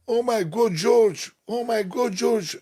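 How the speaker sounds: high, loud fan screams; mimicking screaming women fans. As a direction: shriek his name like starstruck women. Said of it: "Women, they were just screaming".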